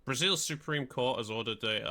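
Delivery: formal news read; newsreader voice. Shown as a demonstration. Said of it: "I sound like a proper newsreader there".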